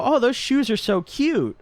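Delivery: high, slow gushing over shoes; gay guy compliment. Retold or imitated. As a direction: put on a camp, drawn-out coo. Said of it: "like, a gay guy compliment".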